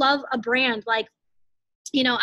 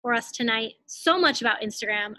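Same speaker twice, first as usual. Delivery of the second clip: breathless after talking fast; winded, short on air; out of breath. Real, not acted. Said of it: "I'm, like, so out of breath".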